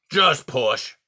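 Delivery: urging them on; lightly voiced stern porcupine; gruff porcupine voice. Era urging the foxes.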